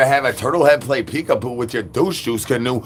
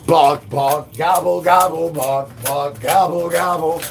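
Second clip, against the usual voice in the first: dog barks then higher turkey gobbles; animal noises; 4 semitones higher than usual. Pretend.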